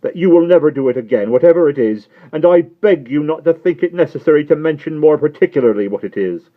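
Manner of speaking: put-on high, loud, anxious old lady; agitated Miss Pross. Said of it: "returned Miss Pross".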